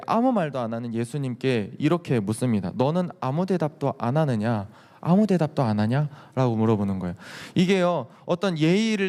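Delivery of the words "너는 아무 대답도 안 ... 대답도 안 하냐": mocking taunt. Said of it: "되게 비아냥거리면서 얘기하는 거예요".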